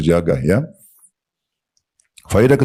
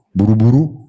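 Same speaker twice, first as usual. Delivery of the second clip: mock mumbling rush; 3 semitones higher, 3 dB louder than usual. Shown as a demonstration. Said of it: "kayak orang kumur-kumur".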